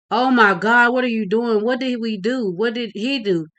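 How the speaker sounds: high, loud panicked cry, fading; mother screams. Acted. Mother screaming as police attack her son. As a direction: scream it in horror, then lose force. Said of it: "Miss Jones screams".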